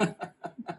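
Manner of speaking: short, soft maniacal chuckle; brief leftover maniacal giggle; maniacal laughter. Real, not acted. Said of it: "I'm just laughing maniacally".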